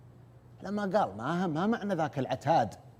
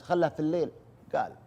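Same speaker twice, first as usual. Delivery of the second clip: ordinary talk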